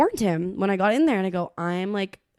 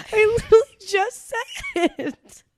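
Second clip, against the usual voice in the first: exasperated; 12 semitones higher, 4 dB louder, slower than usual. Retold or imitated. Exasperated retold reply.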